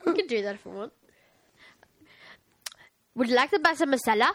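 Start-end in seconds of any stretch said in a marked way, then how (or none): 3.2-4.3 quick mock Indian accent; Indian cow. Podcast host voicing an Indian cow, mock Indian accent. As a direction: put on a hammed-up Indian accent. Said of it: "An Indian cow".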